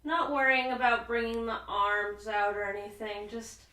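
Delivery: calm, unhurried yoga teacher with long pauses; soothing relaxation-class voice, lingering on the breathing cues; guided sleep yoga. Real, not acted. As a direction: ease them gently toward sleep, phrase by phrase. Leads restful yoga breathing.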